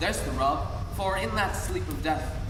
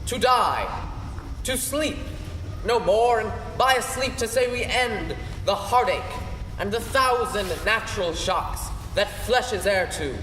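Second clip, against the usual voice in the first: a touch of theatrical Hamlet; stage recitation. Acted. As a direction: recite it as the brooding prince. The speaker performs the Hamlet soliloquy.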